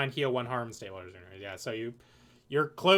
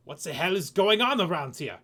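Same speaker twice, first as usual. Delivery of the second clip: put-on loud, higher, half-German French accent; muddled French accent; 4 semitones higher, 6 dB louder than usual. Game master as Bernard reacting to the chaos, botched French accent. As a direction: attempt French, slipping into German. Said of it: "It was supposed to be French, but that was, like, half German".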